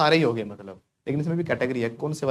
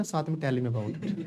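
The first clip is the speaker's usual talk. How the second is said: mock wrong usage; 7 dB quieter, slower than usual. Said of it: "आप मत बोल देना".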